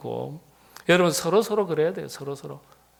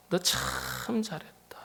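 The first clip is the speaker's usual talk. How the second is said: slow voiceless whisper of praise; whispering the praise slowly; 8 dB quieter, much slower than usual. Acted. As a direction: breathe it gently as God's quiet approval. God's praise, hushed and slow.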